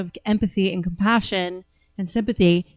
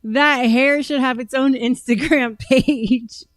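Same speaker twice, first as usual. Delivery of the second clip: laughing while reading; 3 semitones higher, 5 dB louder than usual. Real, not acted.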